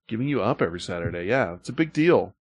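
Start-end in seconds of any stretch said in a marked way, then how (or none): 0.1-1.2 quick repeat. Shown as a demonstration.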